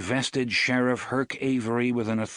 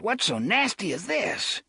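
blustering sheriff voice; 11 semitones higher than usual. Acted. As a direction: play the fussy rural sheriff. Avery voiced.

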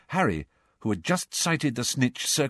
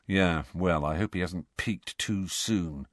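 gloomily; 4 semitones lower, 4 dB quieter than usual. Acted. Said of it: "said Fred gloomily".

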